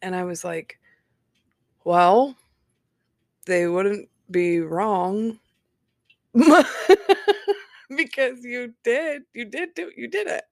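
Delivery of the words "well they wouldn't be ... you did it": breaking into laughter, pitch climbing high; giggling comeback to the ex; laughing retort. Real, not acted. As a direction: laugh as you land the jab.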